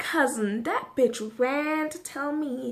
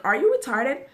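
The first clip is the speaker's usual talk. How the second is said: louder repeat; 7 dB louder than usual. Retold or imitated. That's what I'm asking her.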